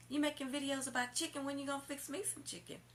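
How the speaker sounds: high voice asking about chicken; imitating the boyfriend. Woman mimics boyfriend calling her at work, high mock voice.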